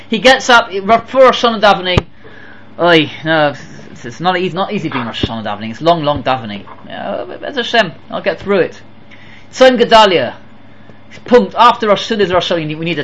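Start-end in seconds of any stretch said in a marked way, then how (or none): 2.8-8.8 weary grumbling. Acted. Reluctant worshipper voiced sighing.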